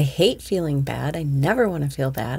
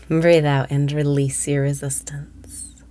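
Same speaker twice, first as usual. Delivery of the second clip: whispered meditation. Acted. Meditation exhale cue.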